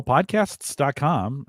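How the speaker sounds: "podcasts" slow, with a clear final S; stressed plural S. Real, not acted. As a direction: draw out "podcasts dot com", sounding the S. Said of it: "again with the S".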